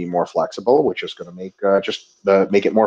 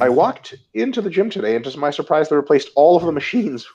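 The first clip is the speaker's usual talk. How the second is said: reading as Ito; 4 semitones higher than usual. Pretend. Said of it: "Ito Dagul says".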